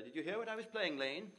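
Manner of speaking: a hint of a dandy asking his butler; acted play line. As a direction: toss off the opening line as a breezy young gent. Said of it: "the opening line is".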